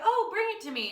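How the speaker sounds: high, sing-song demand; bratty request. Retold or imitated. Girl telling her brother to bring the phone, high and bratty. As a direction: ask sweetly but lazily.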